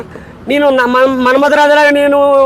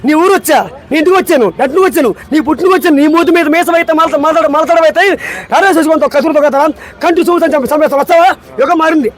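high, punchy hero threat delivery; Balakrishna dialogue; 3 semitones higher, faster than usual. Acted. Guest delivers a film hero's threat line for the host, punchy. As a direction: hurl it like a mass film hero. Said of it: "Balakrishna dialogue చెప్పు".

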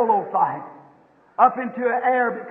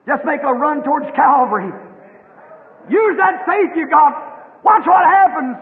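raised preaching voice for a mother eagle; mock eagle scream; 3 dB louder than usual. Mother eagle screams back to her child, raised urging cry. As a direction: urge the young one on, rising in bursts. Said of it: "And she screams back".

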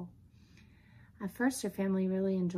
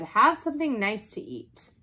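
raised, louder, enticing offer; coaxing burglar; 4 semitones higher, 8 dB louder than usual. Acted. Burglar offers the dog food, coaxing.

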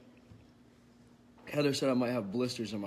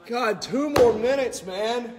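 pained loud groan; 9 semitones higher, 8 dB louder, slower than usual. Real, not acted. In pain from the hot challenge.

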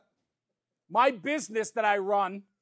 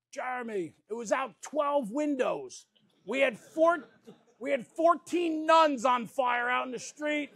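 exaggerating old timer; 2 semitones higher than usual. Old Joe exaggerating the story.

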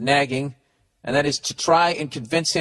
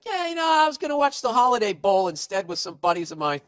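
higher, goofy dude voice dodging the invite; dopey boyfriend excuse; 6 semitones higher than usual. Retold or imitated. Podcaster voicing the guy ducking the parents, goofy higher voice. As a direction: play it off like a clueless guy. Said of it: "And you'd be like".

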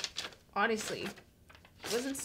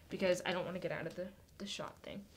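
much softer breathy aside, unvoiced; whispered aside; 7 semitones lower, 12 dB quieter, faster than usual. Real, not acted. Telling the kids why she stays seated, whispered. Aside about camera shot.

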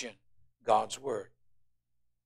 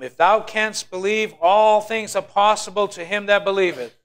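proclaimed scripture; 7 semitones higher, 6 dB louder than usual. Acted. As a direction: declare it like a preacher. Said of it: "Jesus said unto him".

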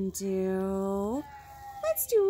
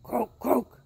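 frog croak; 5 dB louder than usual. Acted. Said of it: "said Frog".

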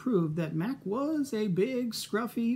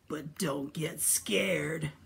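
whisper; much slower than usual. Acted. Monster answers in hush.

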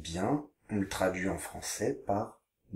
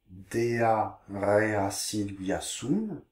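slow reading; much slower than usual. Shown as a demonstration. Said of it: "Je vous lis les phrases".

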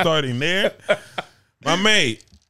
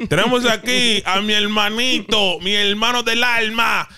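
higher, slow, drawn-out hype; announcer intro; 8 semitones higher, slower than usual. Acted. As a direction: introduce him like a ring announcer. Announcing guest like a host.

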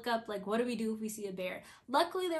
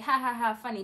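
sarcastic laugh; 4 dB louder, faster than usual. Retold or imitated. Sarcasm at friends' joke.

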